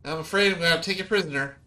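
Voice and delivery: high, quick would-be stern creature; mock-stern little dragon. Meepo announces he will take the party prisoner, high and quick. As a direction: try to sound official and fail.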